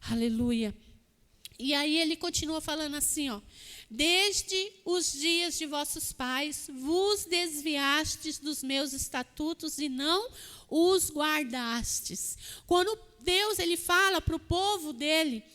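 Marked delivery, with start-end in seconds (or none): 3.9-12.4 bem devagar, solene, palavra por palavra; leitura lenta do versículo. Shown as a demonstration. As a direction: leia a Escritura pausadamente. (leitura bíblica lenta e solene)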